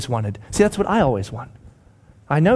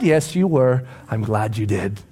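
reassuring parent; 4 semitones lower than usual. Acted.

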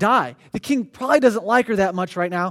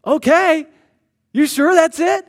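surprised king; 6 semitones higher, 5 dB louder than usual. Acted.

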